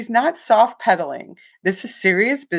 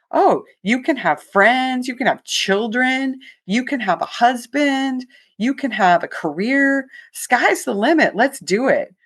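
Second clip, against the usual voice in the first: higher, breezy imitation of a cocky doctor; cocky confidence; 6 semitones higher than usual. Imitating the doctor selling therapy, lightly cocky. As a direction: toss off promises with easy swagger. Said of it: "his confidence and cockiness was so compelling".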